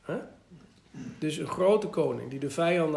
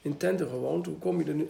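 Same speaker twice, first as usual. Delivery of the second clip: mildly mocking; faster than usual. Preacher voicing God mildly mocking David's plan, light scoff. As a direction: gently poke fun at the idea. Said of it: "Hij zegt het een beetje spottend van".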